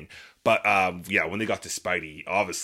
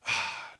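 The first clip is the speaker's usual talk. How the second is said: voiceless breathy sigh; acted-out exhale of dismay; retold sigh; 3 dB quieter than usual. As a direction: let the breath out as a reenacted reaction. Acts out own reaction in cinema.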